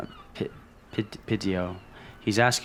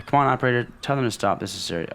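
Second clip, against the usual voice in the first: urgent plea; 4 semitones higher, much faster than usual. Acted. Cop pleads with the operator to stop the laughing, urgent. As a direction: insist it matters, half-pleading.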